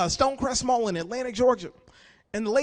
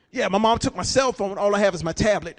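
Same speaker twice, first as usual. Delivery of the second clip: put-on whiny teen; 6 semitones lower than usual. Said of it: "That's your struggle?".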